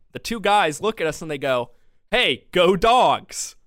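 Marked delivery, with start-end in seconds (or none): 2.1-3.5 slow, hearty mock shout to passers-by; called-out cheer. Fans greeting passers-by in the street, imitated cheering call-out. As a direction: imitate fans calling out, drawn out and loud.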